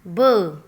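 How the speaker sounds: ब said as a short voiced buh, low; teacher repeating the sound ब; phonic sound demo. Shown as a demonstration. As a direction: model ब for kids. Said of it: "Sound of B is ब".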